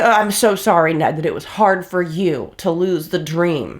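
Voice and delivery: mock-sorry jab at the cheating husband; sarcastic sympathy. Real, not acted. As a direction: sneer the apology at him.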